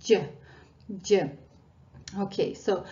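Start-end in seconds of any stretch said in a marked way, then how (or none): 0.0-1.3 "J" said with tongue stuck to the palate; palatal j. Shown as a demonstration. Teacher repeats the sound for learners, palatal j. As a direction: press the front of the tongue up for "J". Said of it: "So stick it to the palate".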